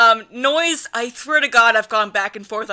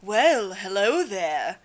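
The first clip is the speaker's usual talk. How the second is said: slow, drawn-out smooth greeting; Virus; 3 semitones lower, 4 dB quieter, much slower than usual. Acted. Showing co-reader Virus's Eric voice, slow and exaggerated. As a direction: draw out the hello, dropping low. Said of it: "he has my, like, Eric voice".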